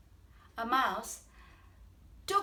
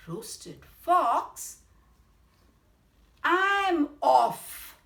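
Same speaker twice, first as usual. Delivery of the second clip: much louder, higher panicked fox; alarmed fox; 8 semitones higher, 11 dB louder, much slower than usual. Acted. Fox hears he's the favorite food, loud panicked yelp. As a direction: yelp it out and bolt. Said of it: "said the fox".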